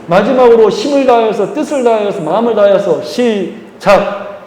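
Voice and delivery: rousing rally. Real, not acted.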